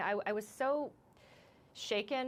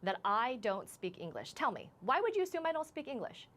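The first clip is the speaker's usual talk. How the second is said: indignant comeback retold, high on the challenge; angry retort; 5 semitones higher than usual. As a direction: retell an angry challenge, drawing out the opening question. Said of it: "I was already angry".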